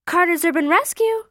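put-on a girl putting on a mildly grown-up phone voice. A narrator's reading. Girl answering the office phone, lightly playing grown-up. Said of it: "in her grown-up voice".

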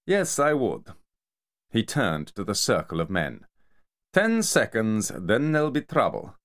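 high, menacing enforcer voice; Kamar threatening. Acted. Kamar warning the search crew, high menacing threat. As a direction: threaten the circle of men.

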